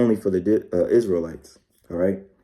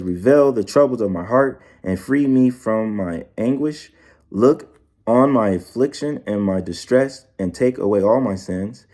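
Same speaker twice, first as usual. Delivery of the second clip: scripture reading. Acted. Reads psalm slowly.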